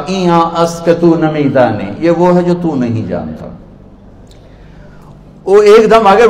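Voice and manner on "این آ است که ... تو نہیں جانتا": mildly haughty put-down; arrogant. Retold or imitated. Scholar dismissing an ignorant villager, arrogant. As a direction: answer as if the asker is beneath you. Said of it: "انہوں نے بڑے تکبر سے کہا".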